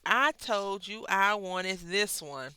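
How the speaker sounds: slow, emphatic mock irritation; annoyed complaint. Person who sent you shopping scolding you, slow and emphatic. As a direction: drag it out like you're fed up. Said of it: "They be like".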